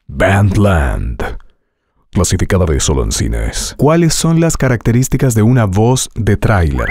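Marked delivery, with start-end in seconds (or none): 0.1-3.8 movie trailer voice. Shown as a demonstration. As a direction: announce it like a blockbuster trailer. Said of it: "entrenando tu voz hoy con trailers de películas".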